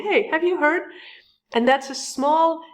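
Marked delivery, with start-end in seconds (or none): 0.1-0.8 higher, bright eager question; eager grocery line gossip. Retold or imitated. Coach acting out a shopper sharing news, eagerly raised pitch. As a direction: lean in like sharing hot news. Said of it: "standing there saying".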